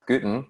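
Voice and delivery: Guten said slowly, like gluten without the L; slow teacher model of Guten; Guten, drawn out for learners; German Guten. Shown as a demonstration. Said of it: "sounds exactly like English gluten".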